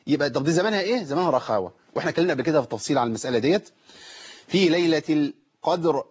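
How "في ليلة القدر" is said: slow chanted "في ليلة القدر", full ra; heavy final ra. Shown as a demonstration. Teacher demonstrating heavy ra, "القدر" recited slowly. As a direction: sound the last ra of "القدر" heavy and clear. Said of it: "الراء عندي هنا مفخمة".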